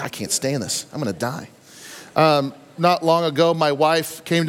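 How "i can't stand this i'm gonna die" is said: much softer and lower, a mock collapse; mock dying groan. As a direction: sag into a hammed-up I'm-dying moan. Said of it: "It's like".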